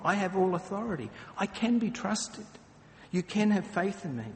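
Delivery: gentle, reassuring promise; a hint of a comforting teacher. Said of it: "He's basically saying".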